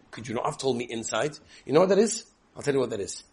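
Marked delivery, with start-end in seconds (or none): 0.1-1.4 annoyed. Retold or imitated. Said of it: "and you're like".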